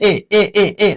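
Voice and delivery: "এ" repeated as a separate vowel sound; vowel demo. Shown as a demonstration. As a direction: hammer out the opening vowel "এ". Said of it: "উচ্চারণটা কার মধ্যে হচ্ছে".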